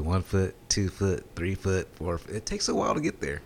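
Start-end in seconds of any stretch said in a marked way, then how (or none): 0.0-2.3 slow count, dropping in pitch and volume; measured steps fading downward; gradual sinking count. Shown as a demonstration. Acts out sinking in a pool.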